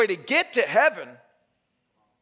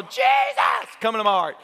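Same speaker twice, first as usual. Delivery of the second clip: crowd repeating prayer. Retold or imitated. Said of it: "there's, like, several hundred people".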